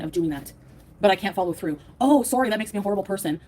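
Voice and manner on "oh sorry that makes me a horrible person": loud mock-sorry, then dropping it; exaggerated sarcastic "oh, sorry"; sarcastic apology. Real, not acted. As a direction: throw the fake apology back at them. Sarcastic reply to chat critics.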